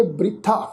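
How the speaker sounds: ਬ੍ਰਿਥਾ with br run together; correct pronunciation. Shown as a demonstration. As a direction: say ਬ੍ਰਿਥਾ as bri-tha. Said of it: "ਇਸ ਦਾ ਉਚਾਰਨ ਕਰਾਂਗੇ".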